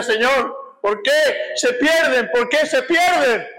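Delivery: slow, rising cry to God, retold; retold anguished plea. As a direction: plead as if broken, drawing out the question. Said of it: "lloraba quebrantado y gemía, le decía".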